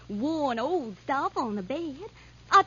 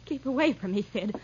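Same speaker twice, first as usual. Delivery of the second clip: restrained, wary warning at usual volume; uneasy warning; 5 semitones lower than usual. Acted. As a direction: warn him off without raising the voice. First warning to advancing man.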